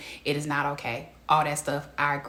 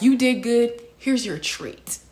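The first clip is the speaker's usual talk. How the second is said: praising a dog; 6 semitones higher, 4 dB louder, slower than usual. Retold or imitated. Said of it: "literally like a dog".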